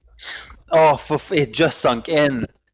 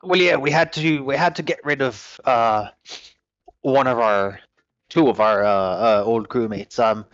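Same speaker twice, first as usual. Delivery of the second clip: ship captain character; 2 semitones higher than usual. Acted. Captain recruiting a new crew.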